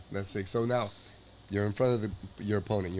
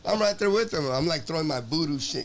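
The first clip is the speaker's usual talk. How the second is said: higher, louder fired-up cornerman; hyped; 5 semitones higher, 4 dB louder than usual. Pretend. Cornerman picturing himself beside the fighter, hyped and higher. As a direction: get pumped like you're in the cage too.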